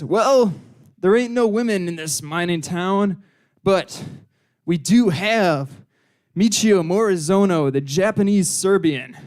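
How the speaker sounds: drawling small-town barkeep, drawn-out pauses. Acted. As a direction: play a barkeep slowly presenting the only option. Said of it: "the barkeep says".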